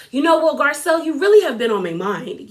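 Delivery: badly faked British accent; imitating a castmate with a shaky grasp of British; attempted British accent. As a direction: have a half-hearted go at sounding British. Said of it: "I can't do a British accent".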